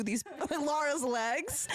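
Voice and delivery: giggling through the words; laughing. Real, not acted. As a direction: laugh as you tell it. Laughing while telling.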